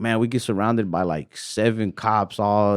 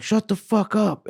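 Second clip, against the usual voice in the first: high, stretched-out mock yell; mock-furious order without full volume; retold angry cop; 12 semitones higher, slower than usual. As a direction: imitate a cop silencing kids, slowly and high. Retold cop silencing the kids.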